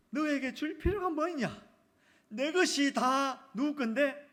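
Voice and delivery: high, loud, slow rhetorical question; emphatic father. Acted. Father answering elder son, loud and emphatic. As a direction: drive it home, loud and drawn out.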